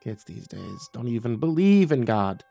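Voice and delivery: drawn-out, slow motherly complaint; mildly disgusted old-fashioned griping; grumbling. Acted. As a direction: grumble about the young. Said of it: "She grumbled".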